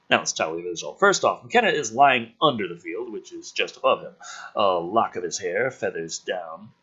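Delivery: dramatic script read; energetic story narration; screenplay narration. Acted. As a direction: build the action like a trailer voice. Reads screenplay action aloud.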